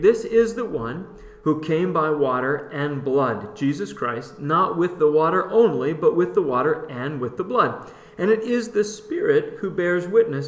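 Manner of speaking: measured Bible reading with lifted key words; scripture reading. Real, not acted. Co-host reading the New American Standard verse, scripture reading. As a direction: read the verse out with deliberate emphasis. Reads a Bible passage aloud.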